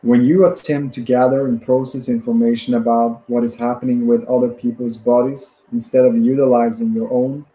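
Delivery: measured book reading in phrases; deliberate self-help audiobook reading; read-aloud narration. Acted. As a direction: read the passage out steadily, pausing between phrases.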